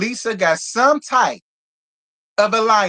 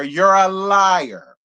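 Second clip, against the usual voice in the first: slow accusation; much slower than usual. Real, not acted.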